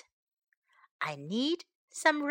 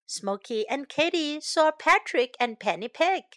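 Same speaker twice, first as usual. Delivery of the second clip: lively storybook reading; reading to children. A narrator's reading. Teacher reading a picture book to young pupils. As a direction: read it brightly to little kids.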